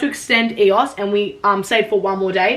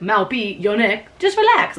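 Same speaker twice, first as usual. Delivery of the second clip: quoting the worker; slower than usual. Retold or imitated. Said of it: "we kept quoting him".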